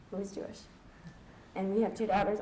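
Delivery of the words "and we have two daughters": real catch in the throat, a touch softer; fighting back sudden tears; emotion welling up. Real, not acted. Mother telling the audience about daughters, choked up. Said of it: "I did not expect to get emotional about this".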